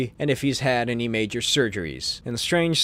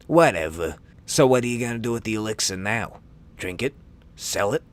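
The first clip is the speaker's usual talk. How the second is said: low thug voice; 5 semitones lower than usual. Acted. Brigand voice.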